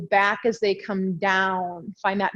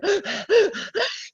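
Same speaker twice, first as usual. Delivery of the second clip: a sudden high gasp for air; sharp gasp; 11 semitones higher than usual. Real, not acted. Yoga teacher out of breath in class, sharp high gasp.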